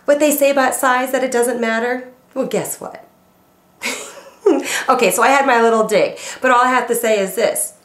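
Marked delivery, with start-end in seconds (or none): 0.0-3.0 sly comeback. Retold or imitated. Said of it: "I look at him and I say".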